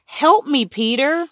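very high, urgent plea; begging. A narrator's reading. Mother begging her son for help, pleading. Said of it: "Mom begged".

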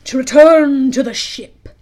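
loud, drawn-out villain's scheming; slow, through the teeth. A narrator's reading. Hook unveiling his plan to Smee, deliberately through his teeth. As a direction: force it out through clenched teeth. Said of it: "Hook replied slowly through his teeth".

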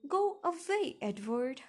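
high, loud narrated yell. A narrator's reading. Daughter staging a break-up with her boyfriend, yelling. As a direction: yell him away. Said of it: "I yelled at him".

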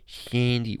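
mock character voice out the side of the mouth; brief side-of-mouth impersonation; Sandy Wexler. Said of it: "Speak out the side of his voice".

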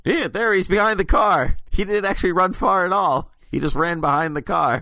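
mock cop calling out. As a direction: play a cop spotting him, for laughs. Cops pointing out the villain.

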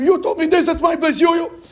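retold scolding of an elder, pitched high; angry boy shouting. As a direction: snap at the old man to claim your spot. Boy fights old man for spot.

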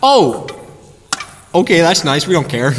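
carefree shrug. Retold or imitated. Voicing easygoing congregation.

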